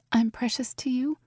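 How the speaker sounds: whispered, barely voiced wonder; hushed question. A narrator's reading. Evie whispering in awe to Aurora. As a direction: breathe the question softly. Evie's voice.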